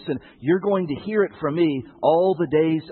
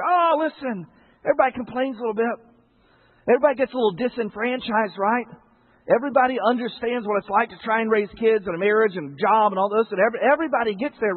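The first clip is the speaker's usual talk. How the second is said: light, breezy brush-off, a bit higher; dismissive excuse; 4 semitones higher than usual. Retold or imitated. A hint of the shrugging church member excusing grumbling. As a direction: wave it away casually. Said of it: "sweep it under the rug and say".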